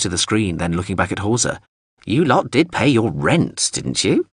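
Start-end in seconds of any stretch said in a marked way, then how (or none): 2.1-4.3 slow, higher, pointed question; needling drone. Acted. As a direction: ask it slowly in a small robot voice.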